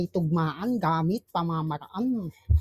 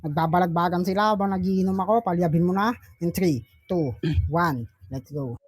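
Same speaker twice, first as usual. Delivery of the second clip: punchy hyped-up announcer call; battle host announcer; 3 semitones lower than usual. Acted. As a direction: hype the crowd like a ring announcer. Host announces second round.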